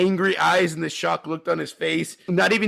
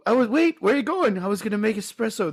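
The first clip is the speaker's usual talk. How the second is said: quoting movie lines; 6 semitones higher than usual. Retold or imitated. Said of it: "Those are the two lines".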